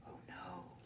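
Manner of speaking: soft unvoiced whisper. Despereaux hearing of the death, whispered. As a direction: breathe it out in shock. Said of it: "whispered Despereaux".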